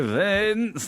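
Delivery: a terrible impression of a singer; weird voice. The speaker calling Vince in his bad singer impression voice. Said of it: "do this weird voice that was not like a famous singer".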